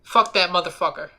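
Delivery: mildly forceful, copied swear; a touch of macho aggression; manly swearing. Shown as a demonstration. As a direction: try to sound like a tough man. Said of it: "manliest man I ever heard".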